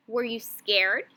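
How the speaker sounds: rising question tune ending on "scared"; question rise. Shown as a demonstration. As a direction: voice goes up on "scared". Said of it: "my voice went up at the end".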